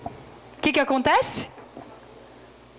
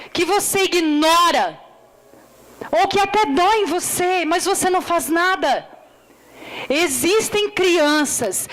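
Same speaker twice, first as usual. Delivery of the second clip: earnest preaching appeal. Acted. Preacher challenging the church about children, earnest appeal. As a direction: press each phrase on the listeners.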